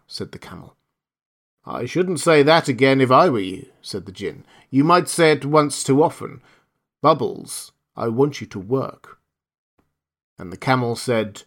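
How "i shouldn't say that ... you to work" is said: a genie threatening gently; warning genie. Acted. Djinn warns camel.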